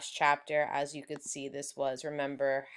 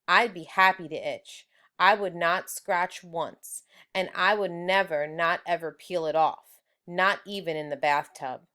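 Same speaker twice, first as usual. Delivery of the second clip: emphatic vow. Acted. Judy vowing to her brother Stink, stubbornly emphatic. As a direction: declare it like a vow, slowing on I would not scratch once. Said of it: "said Judy".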